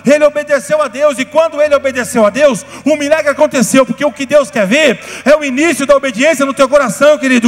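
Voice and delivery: loud, high, fervent preaching; shouting the sermon's climax; full-force preaching. Acted. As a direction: preach with fire to the congregation.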